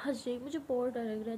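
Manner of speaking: फुसफुसाकर, डरी हुई आवाज़ में; scared whisper. Retold or imitated. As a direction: whisper it, afraid and pleading. Scared plea not to go today. (डर से फुसफुसाती हुई)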